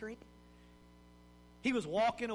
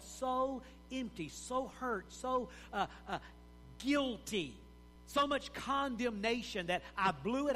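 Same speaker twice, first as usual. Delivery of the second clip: despairing inner voice; 4 semitones higher than usual. Acted.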